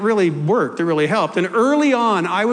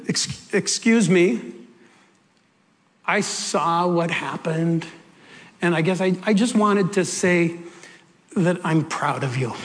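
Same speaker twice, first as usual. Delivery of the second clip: hesitant sincerity; 2 semitones lower than usual. Retold or imitated. Shopper approaching a berated young mom, hesitant and sincere. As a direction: say it haltingly, with tender pauses. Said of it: "and this is what came out".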